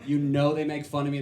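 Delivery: normal talking voice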